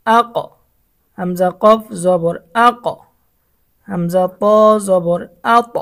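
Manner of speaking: the final আক and আত bounced up with a rising echo; echo rising upward. Shown as a demonstration. Teacher shows students the upward echo, rising bounce. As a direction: let আক ring upward at the end. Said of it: "যেমন".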